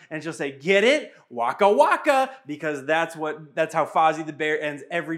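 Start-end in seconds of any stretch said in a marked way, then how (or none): 0.5-2.3 imitating a little girl's proud punchline, pitched up; raised tone. Dad imitates his daughter finishing her joke, raised tone. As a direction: voice lifted high on the punchline. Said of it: "and then she'll raise her tone".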